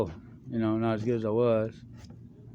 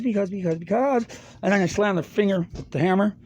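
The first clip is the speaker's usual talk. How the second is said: building up; 7 semitones higher than usual. Retold or imitated. Building up to hitting finger.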